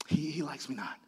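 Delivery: very soft, low, falling tone; quiet disappointment. Acted. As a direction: let the hope drop away quietly. Unlucky petal about God's favour.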